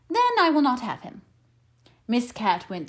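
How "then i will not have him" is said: refusing. A narrator's reading. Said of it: "Missus Fox refuses".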